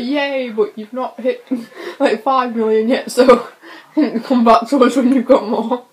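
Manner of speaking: laughing through a mocking quote; breaking into laughs mid-quote. Mocking big YouTubers' dismissive reaction.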